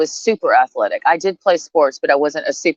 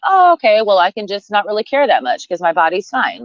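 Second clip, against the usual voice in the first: mock relieved self; 3 semitones higher than usual. Mocking the self that hears you look great, in a breezy mock-relieved voice. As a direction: play the easily reassured fool, lightly. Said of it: "enable me to be like".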